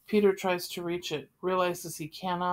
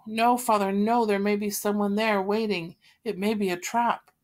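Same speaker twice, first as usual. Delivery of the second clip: frightened pleading; 3 semitones higher, 5 dB louder than usual. Acted. Margot begs father not go.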